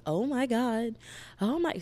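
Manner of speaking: high-pitched acted amazement; gasping fan reaction, hammed up; reader's mock shock.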